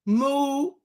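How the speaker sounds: ordinary talk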